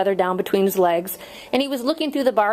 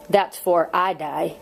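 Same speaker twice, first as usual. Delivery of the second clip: slow, drawn-out words at usual volume; slow pointed reply; slower than usual. Acted. Condemned man answering his visitor, slow and pointed. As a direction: let each word drag, weightily.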